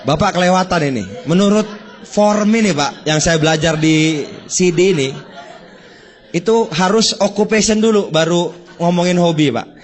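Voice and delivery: hammed-up rule-bound scolding of a customer; rigid salesman's protest. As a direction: play the stiff seller correcting the client.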